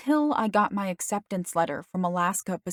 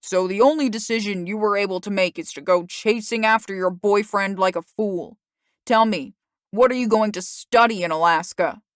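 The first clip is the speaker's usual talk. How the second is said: angry father; 6 dB louder than usual. Acted. Father berates daughter.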